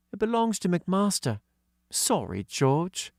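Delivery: put-on high girl's voice; young girl voicing; girl character voice. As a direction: pitch up for young Katy. Katy voice.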